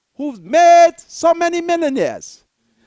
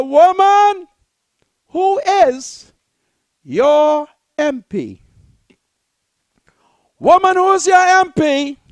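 calling out, a little louder; firm raised voice pressing her; raised questioning call; 4 dB louder than usual. Retold or imitated. Preacher confronting woman, raised voice.

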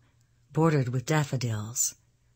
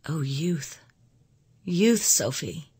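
wistful cry; 3 semitones higher, slower than usual. A narrator's reading. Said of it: "she cried".

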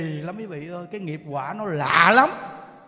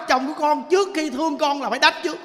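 put-on quoting the old wife; 6 semitones higher, 5 dB louder than usual. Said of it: "bà nói lạ lắm".

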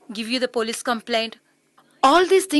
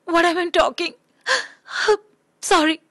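crying apology; 3 semitones higher than usual. Acted. Crying heard.

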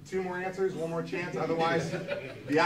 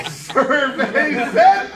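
drawn-out game show host; 6 semitones higher, 8 dB louder, much slower than usual. Acted. Host drawing out reveal, laughing.

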